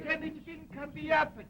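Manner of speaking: a hint of mocking the nephew, high and hushed; mocking echo. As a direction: parrot his complaint back, lightly teasing. Uncle echoes nephew's lament.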